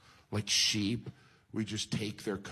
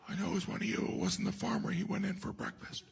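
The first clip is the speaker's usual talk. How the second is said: higher accusing hen voice; suspicious hen; 13 semitones higher, faster than usual. Retold or imitated. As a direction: point the finger like a hen detective. Hen accusing other animals.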